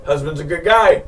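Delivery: put-on loud, rough go at an English accent; attempted English accent. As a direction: imitate an Englishman, unconvincingly. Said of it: "He has an English accent".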